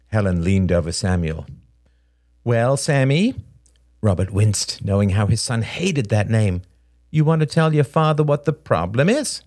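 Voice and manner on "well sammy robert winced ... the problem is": raised, falsely sweet mother voice; needling motherly question; pointed prompting. Acted. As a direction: prod the child to explain. Mother needles her crying son.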